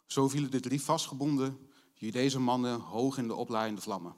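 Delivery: reads the Bible story to the congregation, lively; Bible story reading. Acted. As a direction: tell the story of the fiery furnace aloud, as a reader.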